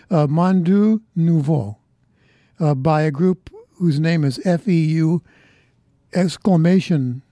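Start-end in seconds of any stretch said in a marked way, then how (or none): 0.1-1.8 The title said slowly in a careful try at French; attempted French pronunciation. Shown as a demonstration. DJ gamely tries the French band's title, slow careful French. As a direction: give the title your best go at French, drawn out slowly. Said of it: "I don't know how to pronounce French, but I'll give it hell".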